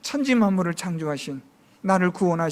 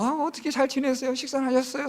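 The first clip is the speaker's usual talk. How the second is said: sweet Seoul politeness; 4 semitones higher than usual. Retold or imitated. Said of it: "서울은 그런데".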